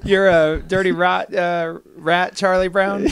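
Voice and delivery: loud, high raspy tough-guy voice; Al Pacino impression. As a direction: bark it like Pacino as Charlie Brown. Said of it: "Al Pacino played Charlie Brown".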